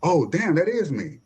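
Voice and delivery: imagine spotting yourself, voice jumping up in dismay; mock dismay. Man discovering he has gone viral, mock dismay.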